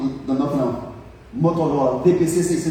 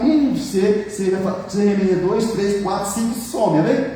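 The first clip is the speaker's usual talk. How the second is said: mock old pastor, a touch higher, ending in a laugh; imitating the old pastor; 3 semitones higher than usual. Preacher mimicking his old pastor's advice, lightly higher. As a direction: lightly put on the elderly pastor's voice. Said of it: "Como é que ele fala?".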